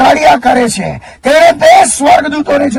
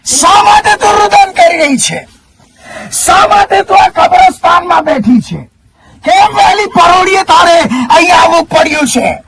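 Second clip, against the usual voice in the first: angels asking gently; 3 semitones higher than usual. Acted. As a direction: voice the angels asking why she weeps. Preacher voices angels questioning Mary.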